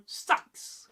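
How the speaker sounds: "Sax" said short and sharp. Shown as a demonstration. Teacher showing Northumbrian speech, short sharp "Sax". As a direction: strike "Sax" like a blade. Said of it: "might come out short, sharp".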